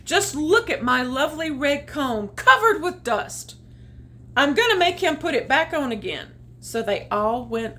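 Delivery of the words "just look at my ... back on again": cross rooster. Acted. Rooster complaining angrily.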